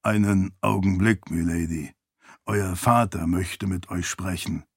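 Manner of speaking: low, deferential attendant's voice; formal servant. Acted. Servant tells milady her father calls, low and formal.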